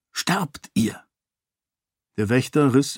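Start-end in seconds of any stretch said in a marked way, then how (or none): 0.1-1.0 breathless whisper of death; whispered threat. A narrator's reading. Raoden whispers a deadly threat to the guard. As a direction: whisper the verdict. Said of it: "sagte Raoden leise".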